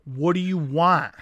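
slow, drawn-out mock yell; imitated yelling. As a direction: play an exasperated man spacing out his demand. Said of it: "Like, he's just yelling it".

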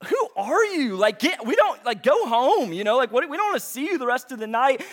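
high, irritated "go home" rant; mock annoyed in-laws. Wife and mother-in-law scolding the splasher, mock annoyed. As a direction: shoo him away, fed up.

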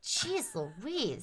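under-the-breath whisper; whispered exasperation. Acted. Sister whispering her exasperation at her brother. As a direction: whisper it to yourself, fed up.

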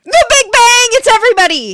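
high, loud gleeful exclamation; mock revelation. Co-host mocking the psychic's ever-wider guesses, mock revelation. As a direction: announce it like the ultimate absurd answer.

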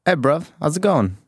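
a bad Cockney accent on request, played for laughs. Friends ask for his Cockney accent, a bad hammed-up Cockney. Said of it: "do you have a good English Cockney accent?".

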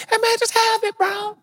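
very high, laid-back bro voice; high, hammed-up bro voice; mock chill bro. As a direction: play the too-cool believer. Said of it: "give 'em to the person".

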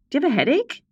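rising pitch, playful infomercial tone; jokey commercial question. Acted. Podcast intro, ad-style read.

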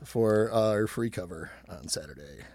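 soft unvoiced whisper. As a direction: whisper the sponsor thanks. Whispered thanks to sponsor.

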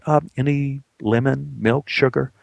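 courteous, tentative offer; very polite. Acted. Assistant director offering the actor tea extras, politely. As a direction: ask deferentially, with no push. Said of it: "was very polite".

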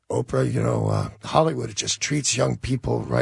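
mopey and sad. Retold or imitated. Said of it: "they're so mopey and sad".

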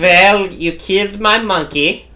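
put-on slow German accent. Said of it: "What accent are you doing there".

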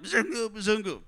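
imitated kids' chant-like call; mock yell at modest volume. Excited children running out to see the visitor, mock yell. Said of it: "running out of their huts and yelling".

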